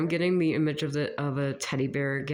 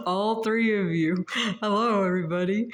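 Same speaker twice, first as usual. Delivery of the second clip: higher and louder, bright call-out; excited greeting; 6 semitones higher, 4 dB louder than usual. Real, not acted. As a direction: call out to everyone with delight. Playful greeting to viewers.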